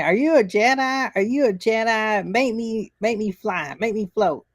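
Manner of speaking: put-on high, insistent kid nagging; pestering child. Child badgering Obi-Wan to prove himself, high nagging imitation. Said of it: "she kept saying".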